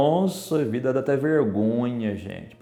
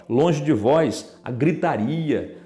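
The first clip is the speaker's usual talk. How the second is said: scripture reading; much slower than usual. Acted. Reads verse aloud.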